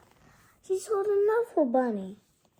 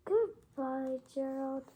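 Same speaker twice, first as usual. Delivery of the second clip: softer, sad farewell; sad goodbye; 3 semitones lower, 8 dB quieter than usual. Acted.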